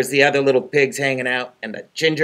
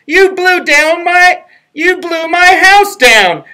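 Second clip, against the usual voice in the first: very high, loud pig yell; angry pig shout; 14 semitones higher, 8 dB louder, slower than usual. Retold or imitated. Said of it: "heard someone shout".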